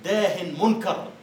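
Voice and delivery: "داه منكر" drawn out slowly, rising at the end; slow old-style quote. Shown as a demonstration. Teacher quoting old usage to students, slow and drawn out. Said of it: "يقولون في الكلام القديم".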